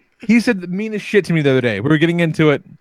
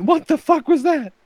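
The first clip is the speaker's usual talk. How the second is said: much higher and slowed, stunned; slow stunned disbelief; 13 semitones higher than usual. Retold or imitated. Father alone after his son's insult, slow stunned disbelief. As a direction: drag it out in disbelief.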